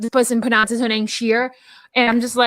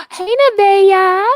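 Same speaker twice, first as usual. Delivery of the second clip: loud high call of a name; sudden bright shout of a friend's name; 8 semitones higher, 6 dB louder, slower than usual. Real, not acted. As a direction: call her name across the room. Greeting friend who walks in.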